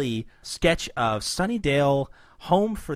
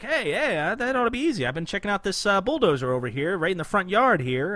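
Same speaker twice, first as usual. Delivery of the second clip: Baxter voice; 5 semitones higher than usual. Retold or imitated. Voicing Baxter.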